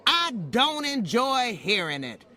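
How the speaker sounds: controlled anger, hitting each word; firm anger. Acted. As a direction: finally say it to her face. Maid finally confronts employer.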